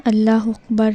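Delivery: اللہ اکبر with the first word's ending slurred into the second; wrong pronunciation. Shown as a demonstration. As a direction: show the common slip in اللہ اکبر. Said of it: "یہ بھی غلط ہے".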